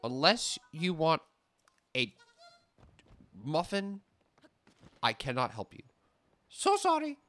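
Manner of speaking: sing-song fake customer-service sorry; mock sweet apology. Barista to hungry customer, mock sweet brush-off.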